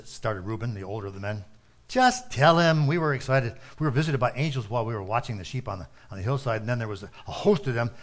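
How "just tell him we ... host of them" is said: excited. Acted. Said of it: "asked one of the shepherds excitedly".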